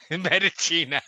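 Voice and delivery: "Medicina" as meh-dee-CHEE-nah; mock Italian pronunciation. Shown as a demonstration. Player playing up the typo, "Medicina" said meh-dee-chee-nah. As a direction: savour "Medicina" like Italian, with a laugh before it.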